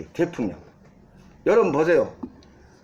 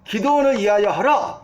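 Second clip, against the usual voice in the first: imitating a battle cry, only slightly raised; mild retold shout. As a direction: proclaim it like a restrained rallying cry. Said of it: "이렇게 외치라는 거예요". (살짝 힘주어 외치는 구호 흉내)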